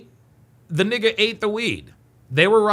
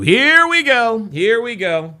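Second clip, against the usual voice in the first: loud, slow, fed-up groan of words; exasperated; 3 semitones higher, 5 dB louder, slower than usual. Real, not acted. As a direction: drag it out, fed up. Mocking an arguing driver.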